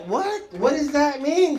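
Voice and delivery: mock shock. Waking to flamingos on the lawn, high startled what. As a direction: yelp it like the joke hit you. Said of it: "I'm like".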